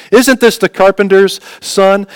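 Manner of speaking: slow, pointed condescension; condescending. Acted. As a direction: draw out the question as a mild put-down. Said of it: "this condescending tone".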